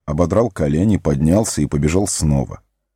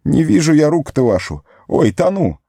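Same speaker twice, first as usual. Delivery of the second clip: much higher, panicked; drowning panic; 9 semitones higher than usual. Acted. Sam floundering in the river, much higher and panicked. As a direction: gasp it out, going under.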